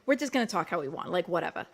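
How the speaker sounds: put-on dismissive Long Island accent. Explaining why Long Islanders talk so, Long Island accent. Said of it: "this is why we talk like this".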